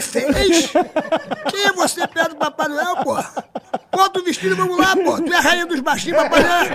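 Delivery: high, worked-up scolding; mock indignant rant. He scolds Xuxa for comparing herself to Santa, high indignant rant.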